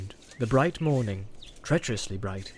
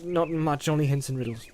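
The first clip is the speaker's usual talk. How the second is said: evasive; 4 semitones higher than usual. Acted. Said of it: "said Frodo evasively".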